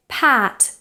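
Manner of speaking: PAT with jaw low and lips spread; spread front vowel. Shown as a demonstration. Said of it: "lower your jaw and spread your lips".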